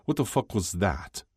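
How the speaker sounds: a touch of terror he can't hide. A narrator's reading. Ilya hearing a wolf howl by the fire, frightened. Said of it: "He couldn't conceal the terror in his voice".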